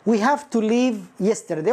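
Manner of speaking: slow, deliberate reading; slow wrong example. Shown as a demonstration. Teacher slowly reads a student's wrong sentence. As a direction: read out the error slowly. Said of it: "واحد كان يعني يريد أن يقول".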